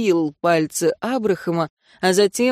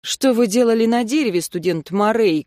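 stern; 3 semitones higher than usual. Acted. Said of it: "грозно спросила я".

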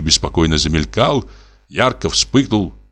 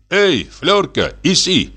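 high-pitched call, only mildly raised; calling the dog; 10 semitones higher, slower than usual. A narrator's reading. Hunter summons his dog from under the bench, calling out. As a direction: call out brightly pitched, stretching the name. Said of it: "крикнул он собаке".

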